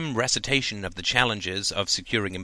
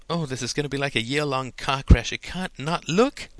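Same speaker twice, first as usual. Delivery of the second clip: higher-pitched delighted anticipation; giggly glee; 5 semitones higher than usual. A narrator's reading. Woman giggles at Gordon's doomed plan, gleeful and high. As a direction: relish the coming disaster, drawing out the end. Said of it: "A woman giggled".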